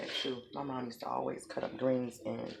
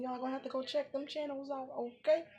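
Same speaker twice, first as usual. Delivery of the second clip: high, bubbly plug for her other videos; high excited plug for her channels; 13 semitones higher than usual. Real, not acted. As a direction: perk right up and sell it to the viewers.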